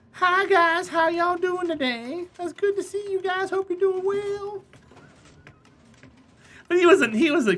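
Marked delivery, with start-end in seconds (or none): 0.1-4.6 gentle giant's voice. Retold or imitated. Streamer imitates big neighbor Dave's high gentle voice. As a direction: imitate Big Dave, high and sweetly slow. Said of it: "he talked like this".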